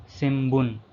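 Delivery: "shimbun" with the N sounded as an M; N pronounced as M. Shown as a demonstration. Teacher showing learners the N syllable, N pronounced as M. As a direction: say "shimbun" slowly, closing the lips on an M before B. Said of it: "pronounced as M".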